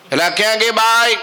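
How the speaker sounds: high call across the house. Acted. Monk calls for the housewife, high call. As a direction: call out for the woman.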